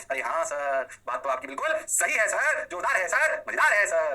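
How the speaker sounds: a hint of a sycophantic student, rising; mock student praise. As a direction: gush like a pupil buttering up the teacher. Teacher voices student praising lesson.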